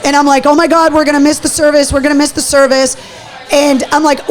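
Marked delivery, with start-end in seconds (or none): 0.5-3.0 fast, frantic rush of words; a touch of retold panic about missing the funeral; panicking. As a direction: blurt it out in a mild retold panic. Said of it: "I started panicking".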